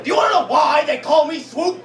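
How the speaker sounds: hamming up the rambling stranger; imitating a homeless man asking about Swoop. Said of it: "the guy locked eyes with me and said".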